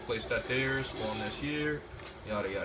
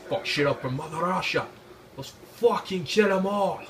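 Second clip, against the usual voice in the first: battle cry; 3 semitones higher, 4 dB louder than usual. Pretend. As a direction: roar it at the team like a mad commander. Rallying team for Mother Russia.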